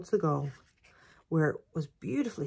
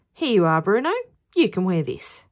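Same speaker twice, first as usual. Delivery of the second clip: loud, hearty character line; handing over; 9 dB louder than usual. Acted. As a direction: offer it out loud to a teammate. Patch handing over strip.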